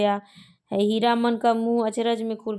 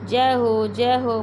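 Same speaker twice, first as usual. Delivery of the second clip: joyful cry; 4 dB louder, slower than usual. Acted. Devotee greets painted gods.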